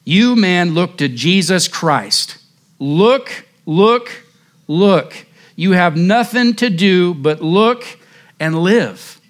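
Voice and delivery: put-on half-shouting a plea to the young man; retold revival-preacher call to look; mild mock shout. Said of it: "he shouted".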